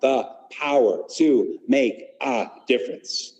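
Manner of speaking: slow, proud, confident; with conviction. Shown as a demonstration. Teacher leads the class in a confident pledge. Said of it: "proud and confident and say it with conviction".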